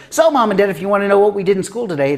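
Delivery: put-on child's announcement. Girl telling her parents about school, proud announcement. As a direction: launch into a child's big wrap-up. Retold child wrapping up a story.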